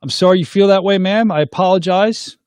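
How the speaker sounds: measured, polite retold apology; killing with kindness. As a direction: apologize kindly to defuse a quarrel. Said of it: "kill people with kindness".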